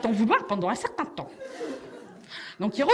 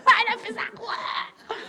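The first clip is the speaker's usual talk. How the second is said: pleased colleague; 8 semitones higher than usual. Retold or imitated. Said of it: "Il est content".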